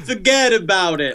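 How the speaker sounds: put-on joking Brooklyn accent. Co-host repeating the bit after praise, Brooklyn accent. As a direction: toss it off in Brooklynese. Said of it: "Very good Brooklyn accent".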